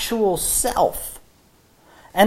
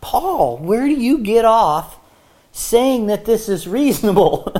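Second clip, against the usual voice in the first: playfully affronted, pitched up; mock indignant challenge; 3 semitones higher, 3 dB louder than usual. Preacher pretends to argue with Paul, mock indignant. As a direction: take him to task in mock protest.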